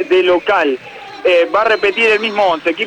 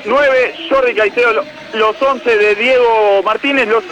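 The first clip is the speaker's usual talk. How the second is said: measured stadium lineup read; number then name, each one presented; 3 semitones higher than usual. Acted. Reporter reading Argentinos' eleven to the broadcast, announcer read.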